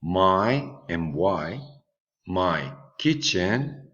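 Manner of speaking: slow model answer. Shown as a demonstration.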